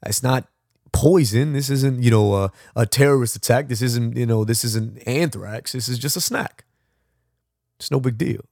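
mildly indignant, arguing the case; upset protest. Retold or imitated. Traveller pleading with customs to keep snacks, mildly upset. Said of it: "I was really upset".

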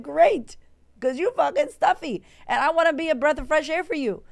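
sassy retort. Retold or imitated. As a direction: throw it back at them with attitude. Her retold sassy reply.

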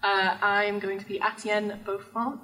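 put-on, uncertain French accent; attempted French accent. Player introducing a character, attempted French accent. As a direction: have a shaky go at a French accent. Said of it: "I will attempt the accent".

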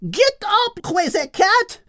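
very high mock scream, slow on crazy cat; screaming hen. Hen Henriette waking the lazy cat, high screech. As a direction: screech it into his ear. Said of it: "she screamed into Al's ears".

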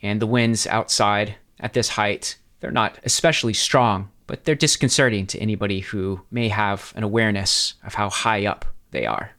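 measured, deliberate scene setting; game master's narration. Acted. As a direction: set the scene with deliberate pauses.

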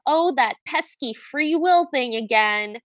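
slow, mildly put-upon imitation; weary exasperation. Imitating the witch answering about free will, wearily exasperated. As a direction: imitate an eye-rolling, long-suffering sigh of a line. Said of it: "It was either like a".

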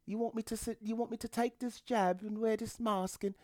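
very high mock-submissive accent; meek, cowed New Yorker. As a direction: plead in a tiny, squeaky, obedient voice. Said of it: "The reason why I'm making that accent".

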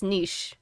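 NICHE said as "neesh"; French-style pronunciation. Shown as a demonstration. Co-host arguing it is French, so neesh. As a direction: say NICHE the French way, rhyming with leash. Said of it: "looks like a French word".

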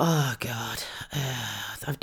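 hushed inner worry, breathy; whispered thought. Retold or imitated. Mother to herself, whispering a worried thought. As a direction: whisper it to yourself nervously.

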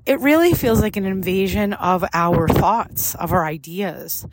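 breathing heavily while walking; slightly winded from a cold walk; audible breathing. Real, not acted. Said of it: "if you hear me breathing a little bit heavier".

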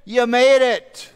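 high, drawn-out incredulous "made it"; imitated preacher's punchline. Preacher quoting words to the thief on the cross, imitated amazement. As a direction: stretch "made" upward in mock amazement. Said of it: "That's how he said it".

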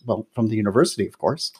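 quick, quiet deadpan retort. Retold or imitated. Mom answering a waitress's question about her accent, deadpan. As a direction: toss it off softly, straight-faced. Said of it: "my mom just deadpan looks at her".

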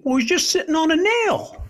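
put-on unbothered old man, laughing a little. Old man tells the young man his dog is fine, high old voice.

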